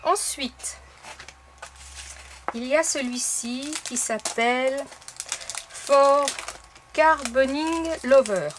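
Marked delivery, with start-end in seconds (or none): 5.7-8.5 English name in a French accent, spaced out slowly; slow, emphatic French-accented English. Real, not acted. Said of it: "Toujours avec mon super accent anglais".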